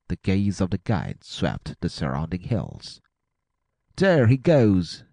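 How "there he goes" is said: high, loud, drawn-out alarm call; excited cry. A narrator's reading. Guide spotting the fleeing man, excited cry. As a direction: cry out the sighting, slow and high. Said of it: "he cried".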